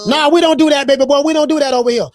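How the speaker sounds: loud, firm no to a viewer; loud dismissal. Real, not acted. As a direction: bark it out like closing the door on him.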